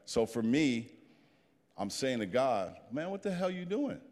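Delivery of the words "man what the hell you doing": high-pitched plea of disbelief; retold exasperation, pitched up; exasperated protest. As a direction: act out challenging God, voice rising high. Acts out protesting to God.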